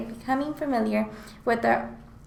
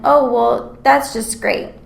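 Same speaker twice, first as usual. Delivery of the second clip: mock-sarcastic, louder than usual; 6 dB louder, slower than usual. Shown as a demonstration. Student showing classmates how intonation makes sarcasm, sarcastic. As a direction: say it as if you mean the opposite. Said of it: "achieve a sarcastic quality".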